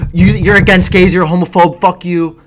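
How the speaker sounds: hammed-up angry shout; mock outraged commenters. Imagined commenters yelling at him, mock outrage.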